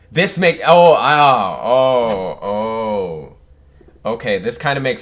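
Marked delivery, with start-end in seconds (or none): 0.1-3.4 overwhelmed gasps. Real, not acted. Overwhelmed by the reveal.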